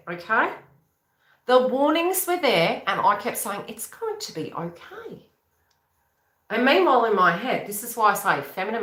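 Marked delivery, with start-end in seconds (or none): 3.7-5.3 high, soft, drawn-out singsong; mock reassurance. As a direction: slowly coo it up high, fooling yourself. Repeating her self-deluding reassurance.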